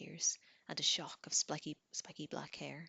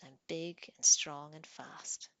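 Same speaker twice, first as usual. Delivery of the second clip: much louder, slow whispered boast; gleeful boast; 8 dB louder, slower than usual. Acted. Troll gloating to Tanith about midnight, loud and slow. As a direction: swell up and gloat over his strength.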